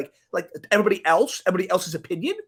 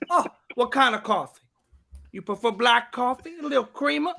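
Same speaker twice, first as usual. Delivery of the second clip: higher-pitched curious host; exaggerated host impersonation, pitched up; Steve Harvey; 6 semitones higher than usual. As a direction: draw the question out with put-on interest. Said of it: "Steve Harvey".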